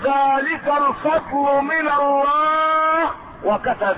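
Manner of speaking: slow, melodic chanting with long held vowels; Quran recitation. Acted. Preacher reciting the revealed answer, Quran recitation. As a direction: recite in measured phrases, gradually climbing in pitch.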